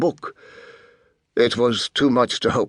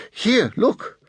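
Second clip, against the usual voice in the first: urgent offer; 11 semitones higher than usual. A narrator's reading. Nguyen shows photo urgently.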